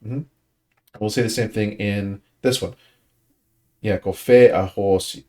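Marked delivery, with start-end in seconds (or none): 4.0-5.2 "confessahosi" with a beat on fe and on hosi; two beats. Shown as a demonstration. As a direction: stress "confessahosi" on fe and on ho. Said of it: "where there's one beat".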